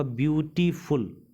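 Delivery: "ब्यूटीफुल" slowed, in three separate parts; broken into syllables. Shown as a demonstration. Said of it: "तीन part में टूटा".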